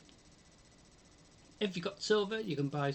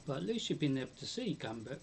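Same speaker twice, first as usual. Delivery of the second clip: talking through chocolate; words round a mouthful; mouth full; faster than usual. Real, not acted. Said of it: "with my mouth full of chocolate".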